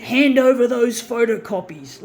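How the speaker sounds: stern, loud command; dad's angry order. Retold or imitated. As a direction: bark it like an angry father. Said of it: "my dad got angry and he said".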